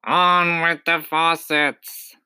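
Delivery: high, slow, drawn-out call; faraway shout. A narrator's reading. Cloud man ordering from high up, drawn-out shout. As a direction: call it out long and high from afar. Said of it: "it shouted".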